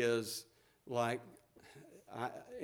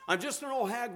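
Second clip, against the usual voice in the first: mock self-pity; 7 semitones higher than usual. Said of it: "The Lord doesn't say that".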